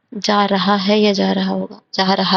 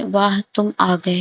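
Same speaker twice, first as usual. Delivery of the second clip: slow, drawn-out reading; stretched-out, unexclaimed statement; without exclamation; slower than usual. Shown as a demonstration. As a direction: read it out slowly as a bare statement. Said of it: "ये थोड़ी ना बोलते".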